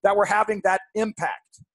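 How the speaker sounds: "impact" set apart and punched a little; stress on IMPACT. Real, not acted. Co-host on listeners writing back, emphasizing IMPACT. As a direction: lean on the word "impact". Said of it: "I'm emphasizing the word impact".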